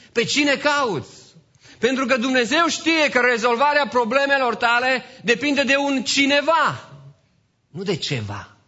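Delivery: high, loud pulpit exhortation; impassioned preaching. Real, not acted. Preaches at full force.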